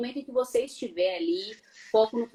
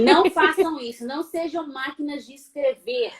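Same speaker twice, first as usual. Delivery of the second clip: louder, higher admonishment; emphatic warning; 3 semitones higher, 4 dB louder than usual. Real, not acted. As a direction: break in firmly to forbid it. Warns after the robotic demo. (advertência enfática)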